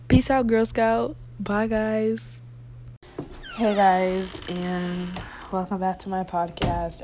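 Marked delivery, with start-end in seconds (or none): 0.1-2.4 upbeat sign-off. Real, not acted. Loud playful sign-off.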